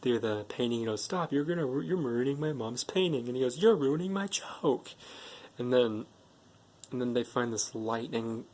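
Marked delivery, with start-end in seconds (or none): 1.1-3.3 mock complaint, pitched up; mildly whiny objection to a friend; imitated protest. Boy objecting, acted in retelling. 3.6-4.9 high-pitched mock complaint; imitated retort. Retold comeback to the complaint.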